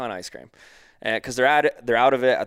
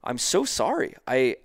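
higher-pitched, earnest mock apology; apologetic worker; 4 semitones higher than usual. Store worker apologizing to customer who was misinformed, apologetic. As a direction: imitate a clerk apologizing emphatically.

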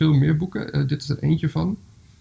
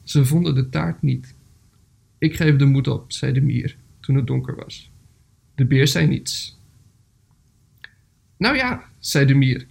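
measured storybook reading with pauses; story narration. A narrator's reading. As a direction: read a gentle animal tale aloud, phrase by phrase. Reads a story aloud.

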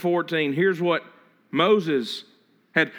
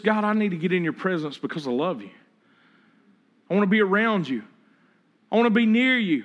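loving prayer. Shown as a demonstration. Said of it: "or is it just".

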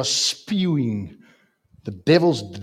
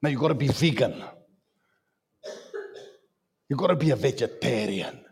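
lightly voiced diet pusher, a bit softer; mock diet preacher; 4 dB quieter than usual. Preacher mocking people who demand diets, lightly voiced. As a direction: mockingly recite the diet rules. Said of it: "commanding to abstain from foods".

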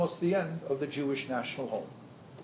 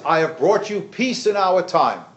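slow, raised proclamation; lightly voiced Neville Chamberlain; 4 semitones higher, 6 dB louder than usual. Lecturer quoting the airport announcement, slowly proclaimed. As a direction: announce it to the crowd, higher and louder. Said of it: "and he says".

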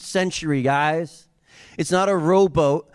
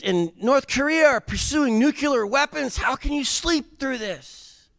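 high, pleading, anxious voice; frantic disciples; 12 semitones higher than usual. Retold or imitated. Disciples pleading with the sleeping Jesus, high and anxious. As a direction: shake him awake in a panic. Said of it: "They wake Jesus up".

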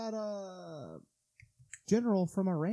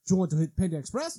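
mock Russian accent; 4 dB louder than usual. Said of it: "Why am I doing Russian?".

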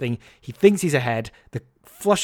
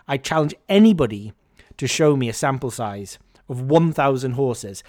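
loud challenge; 4 dB louder than usual. Retold or imitated. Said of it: "said very loudly".

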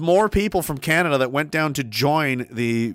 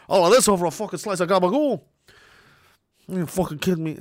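attempted mobster gripe; exasperated, rough fat-guy mobster voice; Tony Soprano; 3 semitones higher than usual. Host fumbles mobster impression over gabagool, mock exasperation. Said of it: "I can't do a Tony Soprano".

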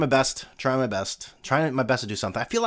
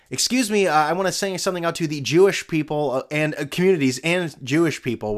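mock dictator; 4 semitones higher, 3 dB louder than usual. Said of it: "sounding like Hitler".

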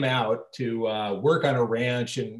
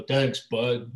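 lightly imitating a Brooklyn cabbie; a hint of mock Brooklyn; Brooklyn accent. Actor mimicking the dubbed cabbie voice, in a light Brooklyn accent. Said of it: "then this voice says".

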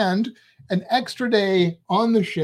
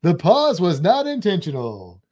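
game show announcer; 4 dB louder than usual. Shown as a demonstration. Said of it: "that's my game show announcer voice".

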